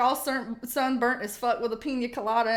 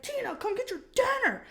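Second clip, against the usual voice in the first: high nasal-free mock call, much higher; Napoleon Dynamite quote; 11 semitones higher than usual. Quoting the movie character calling the llama, pitched high. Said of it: "It's like".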